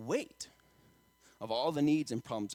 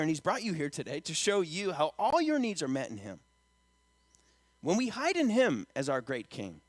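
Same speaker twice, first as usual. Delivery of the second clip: raised preaching voice on key phrases, easing at the end; emphatic preaching; 4 semitones higher, 4 dB louder than usual. Acted. Preacher telling congregation their needs are met, emphatic preaching. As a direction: press the assurance on the congregation.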